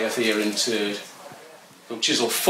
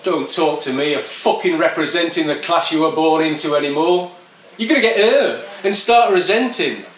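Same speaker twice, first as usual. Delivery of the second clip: louder, higher aggressive yob; defiant skinhead; 5 semitones higher, 4 dB louder than usual. Acted. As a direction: lecture the poet with contempt. Skinhead rants about class war.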